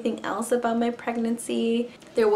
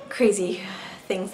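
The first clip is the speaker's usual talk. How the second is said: whispered. Real, not acted. Whispered aside.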